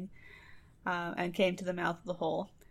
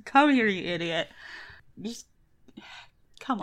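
exasperated wife; 4 dB louder than usual. Retold or imitated. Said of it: "that's why she's like".

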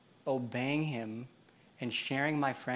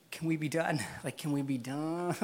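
playful pleading; 3 semitones higher than usual. Retold or imitated. Man asking God for an end, playful plea. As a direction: beg wearily but jokingly to be finished.

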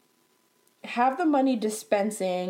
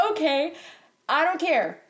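higher-pitched snarky brush-off; 5 semitones higher than usual. Retold or imitated. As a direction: repeat the dismissive retort with attitude. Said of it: "I respond in a snarky way".

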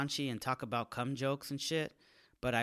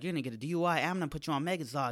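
rapid cop threat; 3 semitones higher, 3 dB louder, much faster than usual. Retold or imitated. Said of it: "they're like".

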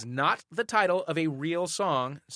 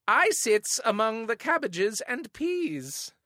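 slow cheeky Cockney, higher pitch; saucy old-timey accent; 8 semitones higher, slower than usual. Pretend. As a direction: leer it like a music-hall star. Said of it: "No, with the accent".

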